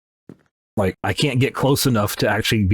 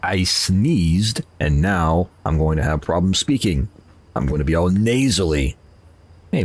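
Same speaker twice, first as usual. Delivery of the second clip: usual speaking voice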